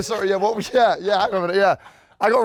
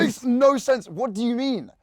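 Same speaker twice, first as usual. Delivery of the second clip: raised, protesting British accent; indignant British, pitched up; posh British accent; 5 semitones higher, slower than usual. Real, not acted. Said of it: "really posh fake British accent".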